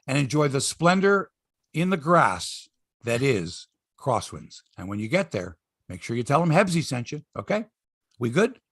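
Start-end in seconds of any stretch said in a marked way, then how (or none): 0.1-6.2 a smooth, lower-pitched radio ad read; cheesy host-read sponsor spot. Acted. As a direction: sell the golf course like a pitchman. Host reads a golf ad.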